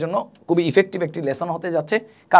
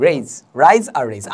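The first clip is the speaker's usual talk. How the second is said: slow contrast; 4 semitones lower, much slower than usual. Shown as a demonstration. Teacher contrasting rise and raise very slowly. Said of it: "R A I S E".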